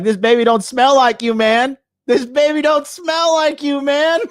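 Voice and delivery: high, loud, incredulous dog voice cracking with laughter; dog voicing. Streamer voicing the dog warning its owner, high, loud, laughing.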